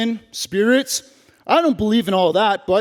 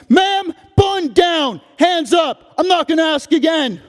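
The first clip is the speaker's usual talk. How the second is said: cop's last warning to the mother; stern order; 7 semitones higher than usual. Acted. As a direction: lay down the final warning. Cop ordering mom.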